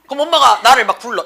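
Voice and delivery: ordinary talk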